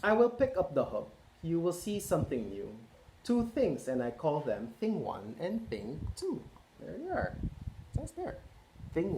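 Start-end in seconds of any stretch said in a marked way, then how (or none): 0.0-6.4 lively picture-book read-aloud; reading to children. A narrator's reading. Parent reading Cat in the Hat to children, lively. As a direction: read it out to a roomful of kids.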